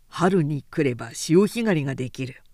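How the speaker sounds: a lightly voiced bragging workman; boastful carpenter. A narrator's reading. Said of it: "一軒ずつ回っては自慢していた". (自慢げな大工の声)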